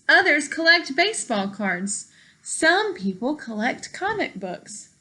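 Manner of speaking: lively storybook read-aloud for a class; reading to children. Acted. Teacher reading a picture book to her class, lively storytime voice.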